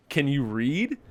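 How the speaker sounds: "read" rising at normal speed, a quick jab. Retold or imitated. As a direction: fire the repeat off briskly. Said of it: "I was like".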